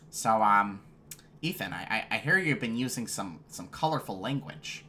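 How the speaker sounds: lightly imitated nasal principal; mildly nasal, uncommanding principal voice; nasally principal. Principal confronting student over swearing, lightly nasal imitation. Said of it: "he had that really nasally, like, principal voice".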